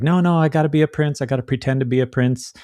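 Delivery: insecure Aladdin. Acted. Aladdin feeling inadequate in the cartoon, hurried insecure insistence. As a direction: rush it out like someone faking confidence. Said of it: "doesn't feel adequate, and he's like".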